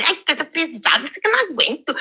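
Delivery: mock whining about the heavy weight; hammed-up "can't take it" moan; retold complaining. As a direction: imitate yourself griping at the gym. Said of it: "Aí já tava reclamando".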